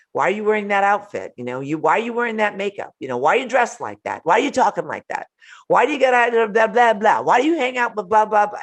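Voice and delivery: quick, rising mock nagging at mom; mocking nagging child. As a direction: rattle off the complaints like a nitpicking grown kid. Mimicking nagging adult children.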